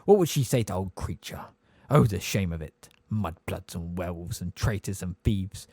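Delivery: a lightly voiced old house elf, grumbling to himself; just a hint of a croaking old elf muttering under his breath; hoarse bullfrog mutter. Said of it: "muttering under its breath in a hoarse, deep voice like a bullfrog's".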